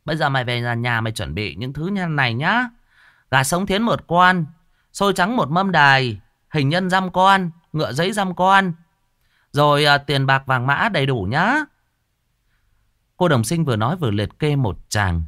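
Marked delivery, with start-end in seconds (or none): 0.0-11.6 high, loud, bossy warning; stern shaman. Acted. Shaman warning the old woman of ghosts, high and bossy. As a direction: talk down to the client. Shaman lists ritual items.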